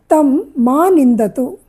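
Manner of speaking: slow, deliberate reading of తం మా నిందతు; teacher reading తం మా నిందతు word by word; slow dictation. Shown as a demonstration. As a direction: spell out తం మా నిందతు slowly for the class. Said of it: "teacher dictates Sanskrit sentence".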